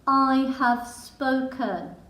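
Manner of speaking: slow, loud, final pronouncement; slow and loud, ending the argument; stern mum. Acted. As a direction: lay down the law like a stern lioness mother. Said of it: "said Leo's mum sternly".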